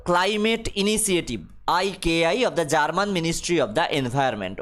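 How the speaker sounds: reads the English line very slowly, word by word; slow dictation reading. Acted. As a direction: spell it out for the class at dictation pace. (ধীরে ধীরে ইংরেজি পাঠ)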